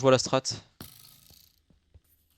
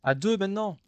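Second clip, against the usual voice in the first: sudden alarm, louder; 3 semitones higher, 5 dB louder than usual. Real, not acted. Deux ennemis arrivent. (alarmé, plus aigu et fort)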